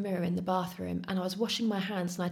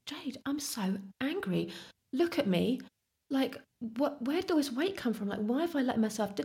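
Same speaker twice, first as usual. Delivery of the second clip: upset venting; 5 semitones higher than usual. Retold or imitated. Venting to friend Jade.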